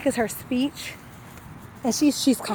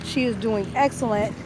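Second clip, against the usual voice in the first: talking with a numb lower lip. Real, not acted. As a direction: numb lip after wisdom teeth. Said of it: "My lower lip is completely numb".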